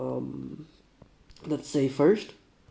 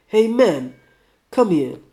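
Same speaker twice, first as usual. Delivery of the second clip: put-on mild plea in a louder Russian accent; almost pleading; 4 semitones higher, 7 dB louder, slower than usual. Sick man calling the drifter over, almost pleading Russian accent. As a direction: beckon someone over, faintly pleading. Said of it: "almost pleadingly".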